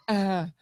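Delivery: short mock moan; imitated moan. Comic imitating the woman in bed, mock moan. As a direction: imitate a partner's moan briefly. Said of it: "and then she's moaning".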